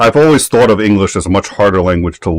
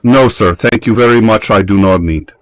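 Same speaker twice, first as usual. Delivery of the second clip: imitated fluent English reply, pitched up at first; perfect English; 3 semitones higher than usual. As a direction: mimic a Russian woman suddenly speaking perfect English. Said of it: "she replies in perfect English".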